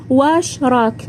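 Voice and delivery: واش راك said with an Iraqi accent, heavier vowels. Shown as a demonstration. Iraqi accent, showing how she used to greet. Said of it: "هكذا بالعراقي".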